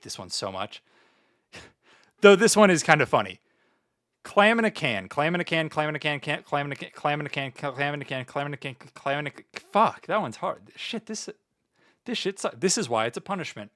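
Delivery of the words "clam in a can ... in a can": tongue twister. Shown as a demonstration. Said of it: "We gotta read tongue twister".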